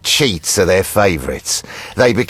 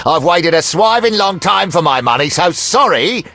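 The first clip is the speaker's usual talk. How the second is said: higher-pitched aggrieved complaint; mock apology at a raised pitch; indignant; 6 semitones higher than usual. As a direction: vent impatience at a late debtor. Creditor indignant over late payment.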